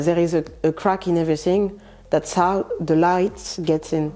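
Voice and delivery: English lyric in a heavy French accent, slowing down at the end. Shown as a demonstration. Quoting a singer in English, with a thick French accent. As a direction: quote it in English with your French accent, unpolished. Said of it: "avec mon accent pourri".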